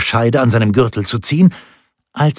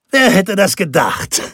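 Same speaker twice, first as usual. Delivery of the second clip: laughing exclamation; 10 semitones higher than usual. A narrator's reading. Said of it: "rief er nunmehr lachend aus".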